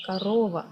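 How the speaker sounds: KOROVA stressed in the middle, "ka-RO-va"; stress on second O. Shown as a demonstration. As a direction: lean on the middle syllable of "korova", first o as ah. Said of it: "And the stress goes to".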